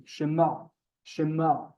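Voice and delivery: "Shema" with a guttural final vowel; throaty ayin. Shown as a demonstration. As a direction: squeeze the end of "Shema" in the throat. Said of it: "we're very throaty".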